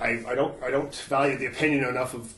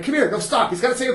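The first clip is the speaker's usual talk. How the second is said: retold insistence; 9 semitones higher than usual. Retelling himself dragging guy to apologize.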